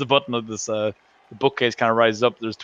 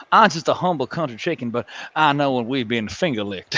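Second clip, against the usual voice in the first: chicken lawyer. Retold or imitated. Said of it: "the chicken lawyer in Futurama".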